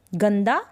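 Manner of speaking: गंदा with a clear nasal न before द. Shown as a demonstration. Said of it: "गंदा में ये जो बिंदी". (गंदा अनुस्वार के साथ)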